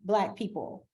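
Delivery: imitating a patronizing acquaintance; mock condescending compliment. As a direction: parrot the backhanded praise with fake sweetness. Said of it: "a lot of people say like".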